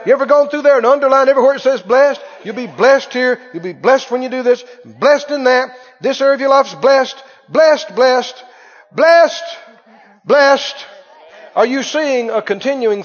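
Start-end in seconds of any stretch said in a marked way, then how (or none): 0.0-10.8 fast, loud preaching burst; fiery preacher shouting blessings; preaching at full force. Acted. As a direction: drive it home loudly.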